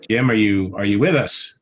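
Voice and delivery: loud call into the meeting. Real, not acted. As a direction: raise the voice to reach Jim. Calling to a muted speaker.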